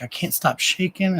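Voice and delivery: high, hushed imitation of a shaken friend; mock alarm. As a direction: play his alarm high and small. Voicing friend who keeps shaking.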